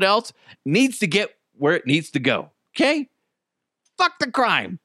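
high, emphatic mock defiance; defiant. Robot driver brushing off a crime scene to deliver food, defiant.

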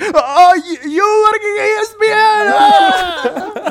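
very high, loud, fast squeal; really excited. Retold or imitated. Ali works out who gave him the card, really excited. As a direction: imitate a thrilled, stuttering realisation. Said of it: "He got really excited".

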